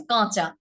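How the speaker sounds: "কাঁচা" with the first vowel sent through the nose; nasalised vowel. Shown as a demonstration. Teacher demonstrating chandrabindu to students, nasalised. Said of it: "এইভাবে".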